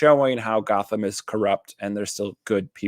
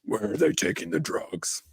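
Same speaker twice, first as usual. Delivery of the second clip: Christian Bale Batman growl; 5 dB quieter than usual. Acted. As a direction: growl it like a gravel-throated vigilante. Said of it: "that Christian Bale growly".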